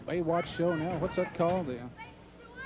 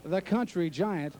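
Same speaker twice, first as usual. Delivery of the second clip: ring announcer intro; slower than usual. Shown as a demonstration. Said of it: "They call him in this part of the woods".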